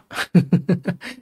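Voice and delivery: short breathy chuckle in bursts. Real, not acted. Teacher amused the chart gap already closed, chuckling. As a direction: chuckle briefly to yourself.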